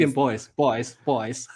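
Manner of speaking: put-on 不好意思 slurred into "boys", drawn out slowly. Shown as a demonstration. Co-host sounds out the slurred 不好意思, slowly. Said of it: "像不像boys？".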